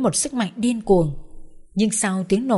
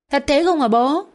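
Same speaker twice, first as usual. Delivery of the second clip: high, louder wide-eyed question; amazed little girl; 6 semitones higher, 4 dB louder than usual. Acted. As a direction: gasp it out like a child hearing a fairy tale. Child character asks.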